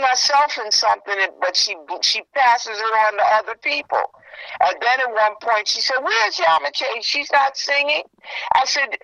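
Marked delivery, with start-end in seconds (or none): 6.0-8.0 higher, slow pointed question; lightly voiced busybody; quoting nosy woman. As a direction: lift the pitch and draw it out. Quoting woman asking about singer.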